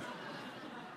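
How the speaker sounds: quiet breathy laugh at himself; soft laugh. Real, not acted. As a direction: laugh off the failed accent. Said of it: "No, no".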